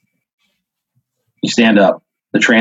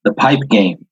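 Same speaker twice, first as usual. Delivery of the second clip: put-on slow, lightly accented broken English, higher; 3 semitones higher, slower than usual. Street attacker greeting the player, slow broken English. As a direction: spell out each word like halting English. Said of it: "in very broken English".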